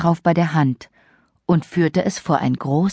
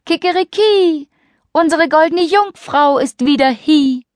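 high, loud rooster crow; 10 semitones higher, 5 dB louder than usual. Acted. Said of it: "saß der Hahn auf dem Brunnen und rief".

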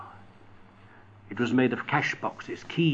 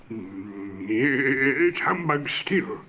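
whisper; much slower than usual. Acted. Scrooge denies the approaching ghost.

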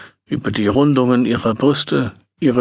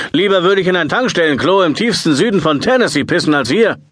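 raised, heated rant; angry; 4 semitones higher than usual. Retold or imitated. Imagined angry rant to her.

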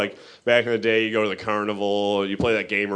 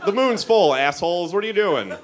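exasperated rant; 10 semitones higher than usual. Retold or imitated. To neighbors blaming gypsies, high exasperated yell. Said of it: "It's like".

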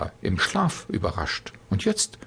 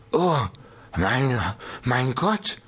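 put-on drunken slur; 3 semitones higher, slower than usual. A narrator's reading. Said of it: "lallte er vor sich hin".

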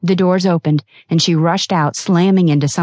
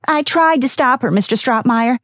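much higher, anxious apology; nervous secretary excusing herself; a touch of fear; fearful; 9 semitones higher than usual. A narrator's reading. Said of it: "a note of fear in her voice".

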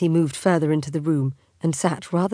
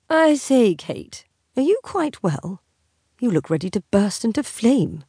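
mock concern; 6 semitones higher than usual. Husband teasingly feigns concern.

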